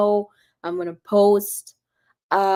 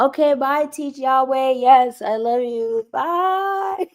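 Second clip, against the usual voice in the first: cheery high goodbye; 4 semitones higher, slower than usual. Real, not acted. Signing off to a live viewer.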